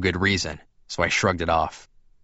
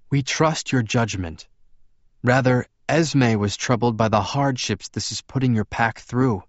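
lightly voiced, courteous vampire; slightly higher, careful dialogue; Edward's character voice; 4 semitones higher than usual. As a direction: lift the pitch a little, explain politely.

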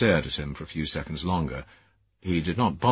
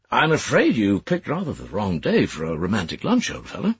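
amused colleague voice; 5 semitones higher than usual. Acted. Sayers amused at Leggett.

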